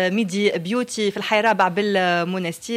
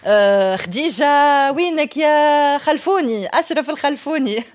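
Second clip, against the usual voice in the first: calling out; 5 semitones higher, 4 dB louder, slower than usual. Real, not acted. Host calls out to crew member.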